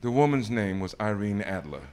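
imitated British lady, politely at the end of her patience; barely-patient British accent. British society lady answering a nervous caller, barely keeping patience. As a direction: do a British receptionist putting up with a caller. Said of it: "I'm barely keeping my patience British accent".

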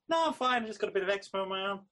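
brushing it off a bit too quickly; defensive brush-off. Retold or imitated. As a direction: rush out a chirpy I'm fine. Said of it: "And I was like".

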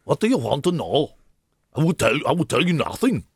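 mock stern German accent. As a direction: play a cliché German interrogator.

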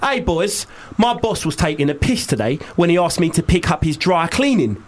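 listener's gripe read in Cockney; Cockney accent. Acted. Guest reading out a listener's complaint about her boss, Cockney accent. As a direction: put on Cockney for the message. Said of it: "We like to do it in a Cockney accent".

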